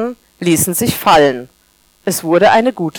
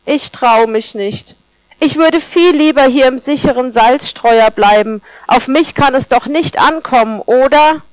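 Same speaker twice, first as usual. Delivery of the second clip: timid; 4 semitones higher than usual. Acted. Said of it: "fragte zaghaft ein schüchternes Salzkorn".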